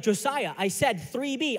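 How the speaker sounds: mildly frustrated insistence; frustrated dad. Retold or imitated. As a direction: imitate an impatient dad repeating himself. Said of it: "he's getting frustrated".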